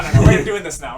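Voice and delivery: loud mock insistence, near yelling; half-joking yell of insistence; mock shout. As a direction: bark the no's like you mean it, hammed up. Mock outburst mid-story.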